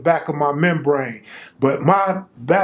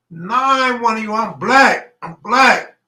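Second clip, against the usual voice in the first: BLACK hit high and loud; emphatic I'm black; 8 semitones higher, 6 dB louder than usual. Retold or imitated. Retelling to the Mexican inmate, emphatic insistence. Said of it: "I'm putting emphasis".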